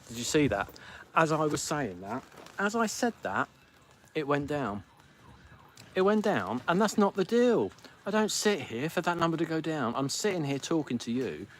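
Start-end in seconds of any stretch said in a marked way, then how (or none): 2.6-9.4 higher, indignant protest; indignant outburst. Real, not acted. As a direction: complain it isn't fair. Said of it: "number drops mid-sentence".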